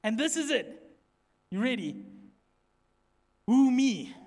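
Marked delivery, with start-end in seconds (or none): 3.5-4.1 loud, punchy question; mock disbelief. Shown as a demonstration. Preacher showing congregation the title to say, mock disbelief. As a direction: announce it as an incredulous question.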